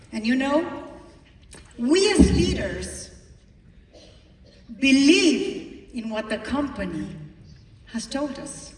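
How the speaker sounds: loud, fast rallying cry; rousing speech. Real, not acted. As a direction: fire up the crowd. Rallying the audience.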